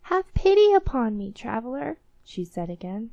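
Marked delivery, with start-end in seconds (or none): 0.0-2.0 high, loud opening plea; pleading beggar woman. A narrator's reading. Starving old woman begs a passing traveller, high plea. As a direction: beg for pity in a raised old woman's voice.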